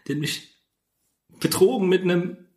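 high, halting hammed-up grief; high mock-tragic voice. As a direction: choke out the betrayal, pitched high. Mock tragic confession about wife. (hohe, stockende gespielte Trauer)

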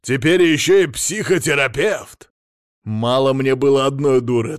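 ranting. A narrator's reading. Husband rants at wife.

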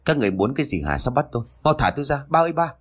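detained daughter protests, then yells for her father; annoyed voice. Acted. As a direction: snap at the police, then call for dad. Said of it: "Hoài bực giọng".

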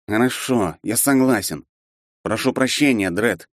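ordinary delivery

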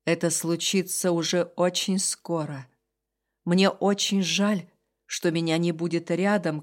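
low, slow fading voice; weak dying man. Acted. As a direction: barely hold on to the words. Dying demon says farewell. (слабый голос умирающего)

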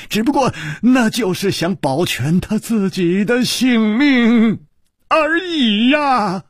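high, fast, heated tirade; enraged yelling that builds to the last word; furious roar. A narrator's reading. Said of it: "怒吼道".

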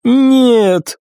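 high, sharp cry of loss; anguished cry. Acted. Iris cries out as her hound dies, anguished high cry. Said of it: "повторила Ирис".

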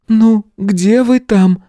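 high, slow call from the classroom; loud call. A narrator's reading. Lidia calling the men from the classroom, loud. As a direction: call them in loudly. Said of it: "громко позвала Лидия".

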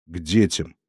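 low, quiet, hollow words; grim reply. A narrator's reading. Valentin telling the old woman he goes to his children, low and hollow. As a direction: barely let it out, low. Grieving man answers low.

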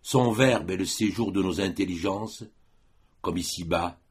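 measured verse reading with pauses between phrases; poetry recitation. Acted. Lecturer quoting Vigny's poem on poésie, recited as verse. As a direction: recite solemnly, line by line.

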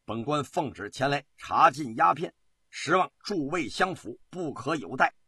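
solemn decree, gathering force; stern official proclamation. Acted. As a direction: lay down the law to the assembled officials. Official's solemn decree, building to vow.

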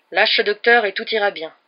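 loud, firm reassurance; promising. A narrator's reading. Sheriff to the hostage taker, loud promise. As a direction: promise it over the speaker. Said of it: "promit le shérif".

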